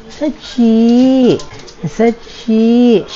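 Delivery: high call for the dog. Real, not acted. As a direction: call the dog from across the house. Calling the dog in the house. (tinatawag ang aso nang malakas)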